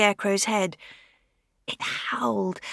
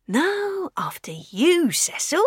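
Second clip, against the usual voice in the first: whispered reply; 8 semitones higher, slower than usual. Acted. Second comedian replies in whisper.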